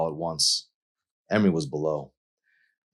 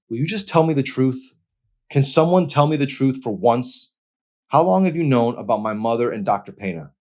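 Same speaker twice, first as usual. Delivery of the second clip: high, loud, furious pleading; demanding the truth; 8 semitones higher, 7 dB louder than usual. A narrator's reading. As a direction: shout for the truth at last.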